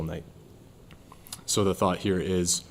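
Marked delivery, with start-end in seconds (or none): 1.5-2.6 winded from the stairs; breathless after climbing stairs; out of breath. Real, not acted. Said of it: "I'm out of breath from the stairs".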